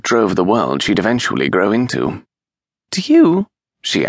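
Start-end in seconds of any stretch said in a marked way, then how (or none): 2.9-3.5 put-on high, louder curious child; a small girl asking back brightly; little girl voice. A narrator's reading. Child asks Miles back.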